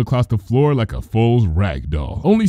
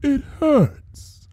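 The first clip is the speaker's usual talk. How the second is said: sudden softness; 7 semitones higher, much slower than usual. A narrator's reading. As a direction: coo it back with cold pity. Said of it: "with sudden softness".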